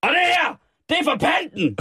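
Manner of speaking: high-pitched hammed-up yell; mock angry punishing. Host acting out punishment of thief over bottle deposit, high mock fury.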